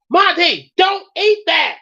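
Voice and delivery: high, loud yell of alarm; warning shout. Acted. Boys yelling at Monty to stop eating. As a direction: shriek the warning across the room.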